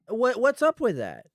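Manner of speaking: hammed-up outraged question; mock indignant outrage. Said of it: "mocking repeat, higher and louder".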